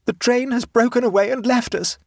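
high-pitched, momentous announcement. A narrator's reading. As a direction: announce it as grave news. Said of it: "made his momentous announcement".

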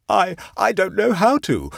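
scared, high-pitched stammer; faltering. A narrator's reading. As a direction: falter helplessly in a high, frightened voice. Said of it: "faltered Leonard, who looked more scared".

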